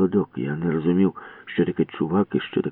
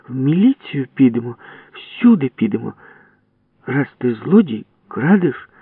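building threat; 6 semitones higher than usual. Acted. Valka threatening.

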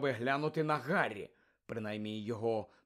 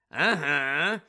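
confirming; 7 dB louder than usual. Acted. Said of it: "підтвердив Муді".

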